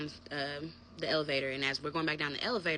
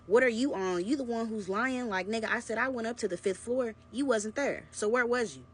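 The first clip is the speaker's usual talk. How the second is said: higher, louder, fed-up retort; angry comeback; 6 semitones higher, 3 dB louder than usual. Retold or imitated. She calls out her lying boyfriend, angry comeback. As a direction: let the frustration burst out. She finally snaps back at him.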